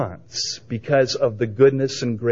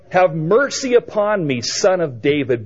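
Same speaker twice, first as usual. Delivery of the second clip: imitated cry for mercy, pitched up then falling; 4 semitones higher than usual. Woman crying out as Jesus comes, imitated plea. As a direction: call out the rehearsed plea. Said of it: "And she cries out".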